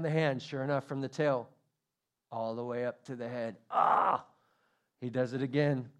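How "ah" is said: breathed-out "ah" of discomfort; startled gasp. Acted. Cat stroked from tail to head, startled gasp. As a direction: gasp as if rubbed the wrong way.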